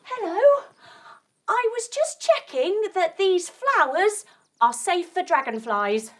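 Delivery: quick nervous bee excuse; bee speaking quickly. Acted. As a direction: talk fast to dodge the dragonfly. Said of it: "very quickly".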